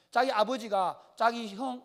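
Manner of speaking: ordinary talk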